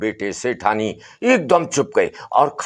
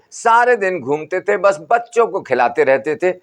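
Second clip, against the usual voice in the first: higher, lightly voiced grumbling wife; Sethani complaining; 5 semitones higher than usual. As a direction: nag about the lazy dead husband. सेठानी शिकायत करती. (सेठानी की हल्की ऊँची, शिकायती आवाज़)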